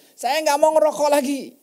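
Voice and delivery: lightly voiced mother vowing to quit; mother's words. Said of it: "Itu yang mamanya bilang".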